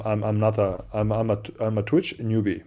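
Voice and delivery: normal talking voice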